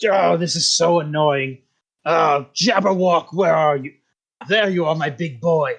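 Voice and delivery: lightly voiced villainous wizard; grumble, then coo lightly for the beast; annoyed wizard. Wizard hunting his Jabberwock in fog, mildly theatrical.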